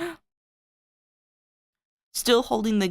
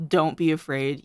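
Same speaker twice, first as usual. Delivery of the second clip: steady voice. Acted. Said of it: "He said with a steady voice".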